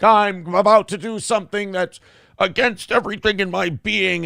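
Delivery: a hammed-up grave declaration; put-on noble tone quoting him. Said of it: "He was like".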